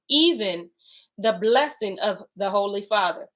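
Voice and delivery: slow, measured reading aloud; deliberate scripture recital. Acted. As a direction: read the holy text with weight. Reads scripture aloud slowly.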